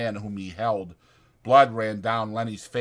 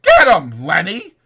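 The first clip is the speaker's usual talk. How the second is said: loud, higher call through cupped hands; yell; 9 semitones higher, 13 dB louder than usual. Acted. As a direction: call across the room. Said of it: "cupped his hands round his mouth and yelled".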